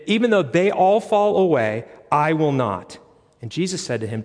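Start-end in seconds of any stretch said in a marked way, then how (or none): 0.1-3.0 lightly acted overconfident disciple; mild boast. Peter's bold vow, retold.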